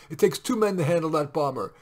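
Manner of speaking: loud urgent soldier. A narrator's reading. Sergeant warning captain in the dugout, loud. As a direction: push it over the shelling.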